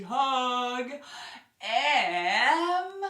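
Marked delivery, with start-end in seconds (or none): 1.6-3.0 a lifted cheer; bright and loud. Shown as a demonstration. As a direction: lift the word Am up. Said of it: "and then we're gonna".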